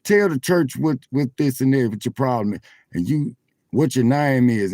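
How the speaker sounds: preacher voice. Retold or imitated. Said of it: "the preacher say".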